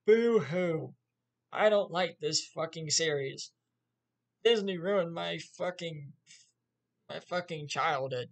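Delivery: mocking a whiny fan who cries boo-hoo; mock whining fanboy. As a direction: sneer at them with fake crying. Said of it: "Just whining like little bitches".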